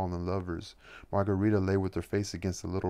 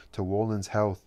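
raised, louder toasting exclamation; excited toast; 2 semitones higher, 5 dB louder than usual. Acted. Margarita raising her glass in a toast, exclaiming loudly. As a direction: lift the glass and call it out. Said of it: "exclaimed Margarita".

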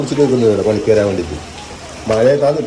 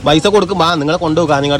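coaxing promise; 4 semitones higher, 3 dB louder than usual. Real, not acted. Father luring baby with promises. (ഉയർന്ന സ്വരത്തിൽ കൊഞ്ചൽ)

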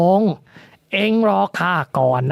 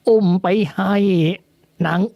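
trembling, quavering voice; 10 semitones lower than usual. A narrator's reading. Old servant caught by the mistress, stammering out the truth in fear. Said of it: "เสียงยายอ่อนสั่นๆเครือๆ".

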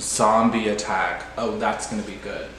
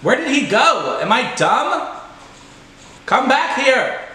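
much higher, louder excited calls; frantic yelling; 12 semitones higher, 6 dB louder than usual. Real, not acted. Gamer chasing a fleeing enemy, frantic high yell. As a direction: chase him down, yelling.

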